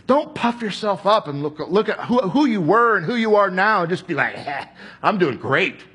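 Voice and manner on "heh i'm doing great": smug. Pretend. Mock self-satisfied believer.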